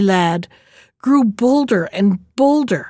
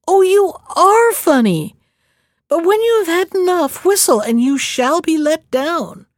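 mocking laughter; 7 semitones higher than usual. A narrator's reading. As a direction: jeer at the hanged man, cheerfully. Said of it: "he rocked again with laughter".

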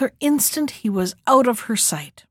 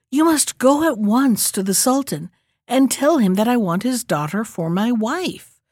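impatient. Acted. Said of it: "repeated the youth impatiently".

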